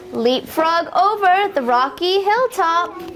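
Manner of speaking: gentle sing-song picture-book reading; lilting refrain for little listeners; reading to children. Acted. Teacher reading a frog book to toddlers, sing-song.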